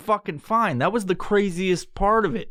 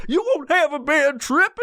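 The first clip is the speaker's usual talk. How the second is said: mock salesy promise; 11 semitones higher than usual. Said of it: "They're like".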